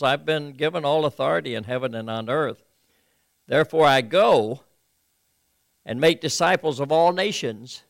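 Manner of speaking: steady Bible reading, slowing near the end; reading from the New Living Translation; scripture reading. Acted. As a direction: read the promise out carefully.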